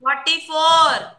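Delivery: number stretched right out; insistent slow dictation. Real, not acted. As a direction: call the number out very slowly. Teacher repeats number for slow writer.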